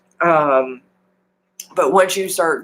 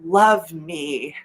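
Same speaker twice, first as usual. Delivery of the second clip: confident self-love; much slower than usual. Shown as a demonstration. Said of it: "I can say it with so much confidence".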